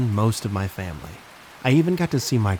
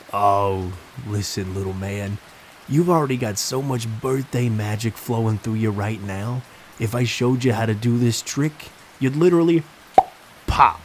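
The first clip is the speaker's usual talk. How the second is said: put-on a clown's New York accent, brushing the boy off; jokey New York clown put-down; 4 dB louder than usual. Clown fobbing off the birthday boy, in a New York accent. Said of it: "in his thick New York accent".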